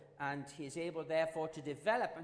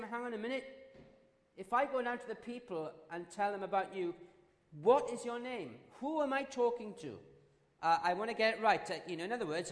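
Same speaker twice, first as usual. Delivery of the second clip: urgent questioning; 3 semitones higher, 3 dB louder than usual. Acted. Moses questions God.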